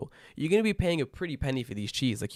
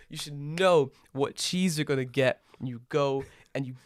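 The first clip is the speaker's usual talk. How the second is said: mock rant; 3 semitones higher than usual. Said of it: "He was like".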